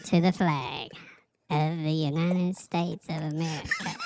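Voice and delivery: christmas elf. Acted. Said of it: "You need to do the elf voice".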